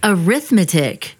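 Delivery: Arithmetic with the first A said clearly; Arithmetic, every syllable crisp, opening A sounded; enunciated arithmetic. Shown as a demonstration. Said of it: "Those of us that enunciate properly".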